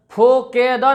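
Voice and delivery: फोकेदा with 'o' and 'e' for 'u' and 'i'; majhul, wrong way. Shown as a demonstration. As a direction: open and lengthen the vowels in फोकेदा. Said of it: "नहीं पढ़ेंगे आप". (फोकेदा, मजहूल आवाज़ में)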